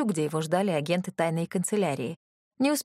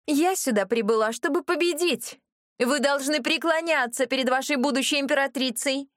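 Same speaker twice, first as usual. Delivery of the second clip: higher, rising into a fanatic shout; mad proclamation; 6 semitones higher than usual. Acted. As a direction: proclaim it like a crazed empress. Безумная брюнетка провозглашает себя императрицей. (безумный возглас, выше и громче)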